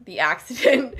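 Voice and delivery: sarcastic air-quote delivery with a laugh. Real, not acted. Podcaster mocking the official story, wry laugh. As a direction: say it like a so-called accident, laughing. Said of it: "I say in quotation marks".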